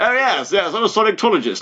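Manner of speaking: lightly put-on Indian accent; a hint of a mock Indian accent; teasing a friend with a mock Indian accent. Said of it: "It became Indian".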